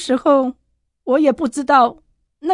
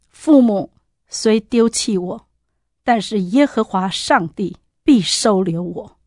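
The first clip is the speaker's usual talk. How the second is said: scripture reading; slower than usual. Retold or imitated. Quoting Psalms slowly.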